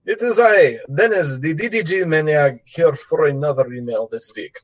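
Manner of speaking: put-on light Russian gangster accent; a hint of a Russian mobster accent. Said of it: "this is Russian gangster voice".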